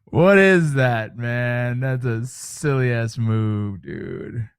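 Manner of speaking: slow, drawn-out amused disbelief. Real, not acted. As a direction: savor how silly it looks. Still amused watching clip.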